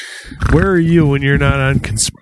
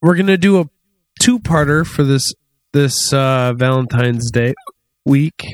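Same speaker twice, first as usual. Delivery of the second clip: hiccuping through the words; talking with hiccups, squeaky catches. Real, not acted. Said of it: "you sounded like a guinea pig".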